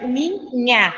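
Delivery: "minha" drawn out slowly in separate syllables. Shown as a demonstration. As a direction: split "minha" slowly into min and nha. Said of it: "É a minha terceira sílaba".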